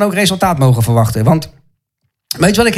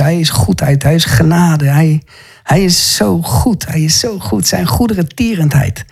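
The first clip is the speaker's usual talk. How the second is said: worship praise. Real, not acted. Preacher praising God aloud in worship. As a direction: pour out adoration.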